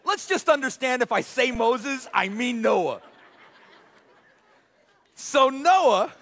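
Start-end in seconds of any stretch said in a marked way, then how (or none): none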